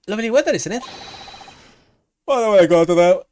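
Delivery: lightly dopey hunk voice; a touch of dopey macho hunk; himbo voice. Acted. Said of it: "give him a bit more of a himbo voice".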